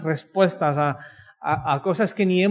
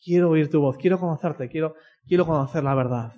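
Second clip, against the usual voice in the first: sample prayer. Shown as a demonstration. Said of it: "antes de leerla, di".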